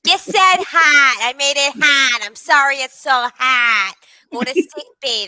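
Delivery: lightly voiced grumbling ship computer; the computer grumbling about hot tea. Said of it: "I'm taking this computer voice".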